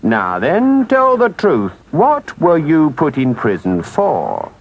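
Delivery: stern engine driver, firm and deliberate. Acted. Engine driver questioning Toad about prison, sternly. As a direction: question him like a stern authority. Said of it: "looked down on him very sternly and said".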